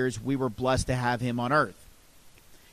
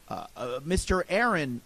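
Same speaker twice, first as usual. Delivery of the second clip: stuttering; 2 semitones higher than usual. Retold or imitated. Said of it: "I stuttered".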